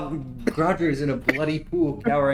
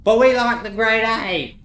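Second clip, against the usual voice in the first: higher protesting goblin; whiny goblin; 8 semitones higher, 7 dB louder than usual. Acted. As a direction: object like a sulky follower. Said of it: "goblin protests".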